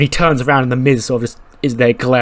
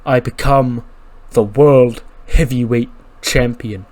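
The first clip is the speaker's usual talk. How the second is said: giant's boast. Retold or imitated. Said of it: "Omos goes".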